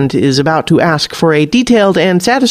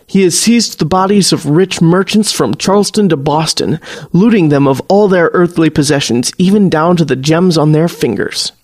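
a hint of a formal colonial soldier, solemn; measured and grave, like reciting from old books; lightly voiced stiff old-world officer; 2 semitones higher than usual. The warlock gravely warns Kat about Ultima Thule, lightly voiced formal officer.

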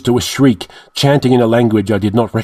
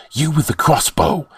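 calling out; 5 semitones higher than usual. A narrator's reading. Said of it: "called to the man in the doorway".

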